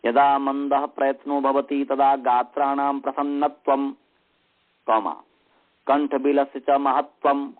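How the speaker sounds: level monotone dictation, punctuation spoken with a falling tone; measured, chant-like dictation on one note. Shown as a demonstration. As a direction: read it out evenly for students to write down. Dictates Sanskrit text to students.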